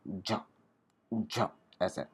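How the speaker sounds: झ drawn out as a soft buzzing zh; a stretched, buzzing झ. Shown as a demonstration. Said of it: "झ का भी थोड़ा स्लोअर साउंड आता है".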